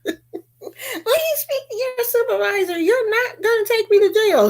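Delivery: high entitled whine through laughter; mock Karen voice laughing. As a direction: mimic her demanding a supervisor. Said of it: "You know she wants".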